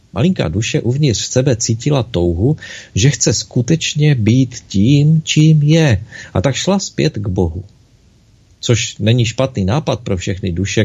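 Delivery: gentle storyteller reading a fable; story narration. A narrator's reading. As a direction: tell it like a bedtime tale. Reads a children's story aloud.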